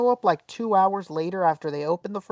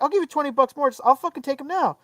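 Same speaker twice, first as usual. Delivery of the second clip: retold pleading anger; 7 semitones higher, faster than usual. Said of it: "I was so mad".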